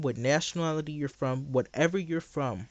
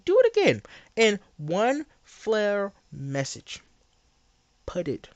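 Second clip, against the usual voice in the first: high squeal; 5 semitones higher than usual. Pretend. Mock demand in high voice.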